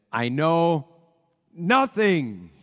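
a loud, lightly put-on German accent; Sergeant Schultz impression. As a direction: bellow it as the bumbling guard Schultz, a touch of accent. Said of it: "I wish that I could do the Sergeant Schultz accent".

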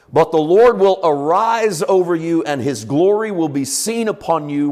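proclaiming Isaiah with swelling, ringing lines; scripture reading. Acted. Preacher reading Isaiah to the congregation, proclaiming. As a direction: read it like a herald calling out the dawn.

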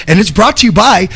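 lively sponsor ad read. Acted. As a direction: sell the salon like a radio ad. Reads a sponsor ad.

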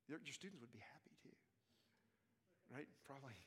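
soft whispered aside; whispering. Real, not acted. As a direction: whisper it to the room. Aside to the class.

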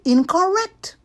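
loud sharp shout. Acted. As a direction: snap it out loudly. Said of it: "so she shouted".

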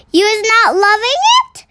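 high, quick, innocent asking; innocent question. A narrator's reading. The BFG to the Bloodbottler, innocent question. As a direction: ask as if you know nothing. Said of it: "asked innocently".

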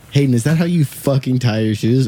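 imitating a boss ribbing a young worker about his laces; teasing boss. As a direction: rib him like a joking boss.

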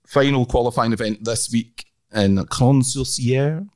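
put-on slow, careful Swiss accent. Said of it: "kind of Swiss accent".

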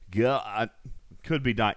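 soft and strained after choking; quiet, still choking on spit. Real, not acted. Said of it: "choking on the spit".

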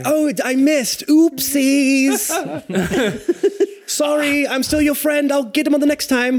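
high, sing-song oopsie voice; sheepish apology. Acted. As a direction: play it off cutely.

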